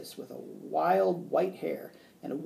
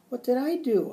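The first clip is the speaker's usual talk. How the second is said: high, louder, worried squeak; hamster squeak; 9 semitones higher, 5 dB louder than usual. A narrator's reading. Hamster asking what he caused, high squeak. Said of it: "I squeaked".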